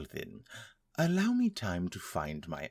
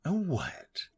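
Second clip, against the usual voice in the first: higher, startled question; surprised; 9 semitones higher than usual. Acted. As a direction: blurt it out in shock. Shocked question.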